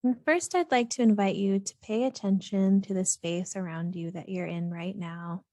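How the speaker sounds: calm, even meditation voice with long pauses; unhurried, steady grounding-practice delivery; guided meditation. Real, not acted. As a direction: gently guide listeners into grounding, leaving space between phrases.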